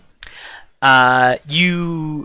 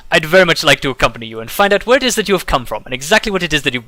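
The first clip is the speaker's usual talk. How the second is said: merchant Dagran; faster than usual. Acted. Merchant greets the travelers, lightly voiced and courteous. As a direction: greet the travelers with a showy bow in the voice.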